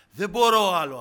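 loud, high cry of giving up; desperate cry. Acted. Believer under trials tells a brother of giving up, crying out. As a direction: cry out as one at the limit.

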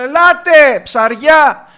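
loud, high, drawn-out call. Acted. Fisherman with an overfull net calls the others, shouting. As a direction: shout across the water to shipmates. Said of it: "Φωνάζει και τους λέει".

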